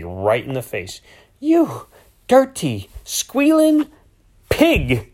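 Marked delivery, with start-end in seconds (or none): 1.4-5.1 each word spat out high and loud; furious shouted insult, word by word; spitting insult. A narrator's reading. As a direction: hurl every word right in his face. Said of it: "she spit out, as if she wanted each word to hit me".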